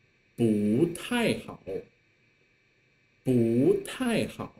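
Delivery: 不 rising before falling 太; teacher's model of 不 with rising tone; 不 in second tone. Shown as a demonstration. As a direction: lift 不 like a second tone, then drop on 太. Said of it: "Why I just said 不太好".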